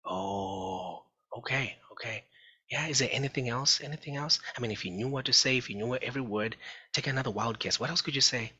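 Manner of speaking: coaxing parent. Retold or imitated.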